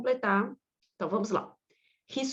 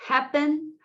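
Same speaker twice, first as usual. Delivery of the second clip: "Happen" with a higher, stressed first syllable; 5 semitones higher than usual. Shown as a demonstration. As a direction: lean on the "Hap" of "Happen". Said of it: "se a sílaba forte, né, for a primeira".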